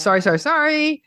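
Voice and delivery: hasty apology. Pretend. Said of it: "Let me go say sorry".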